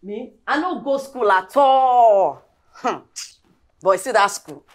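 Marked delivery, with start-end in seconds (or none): 0.5-2.4 slow, drawn-out pidgin boast; slow proud boast. Acted. Maid answering the girl's English jab, slow proud boast. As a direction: savour each word proudly.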